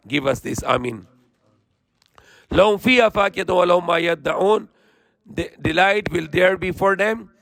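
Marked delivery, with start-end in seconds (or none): 2.5-4.7 swift, even Quranic recitation. Acted. Preacher reciting the verse to listeners in quick chant.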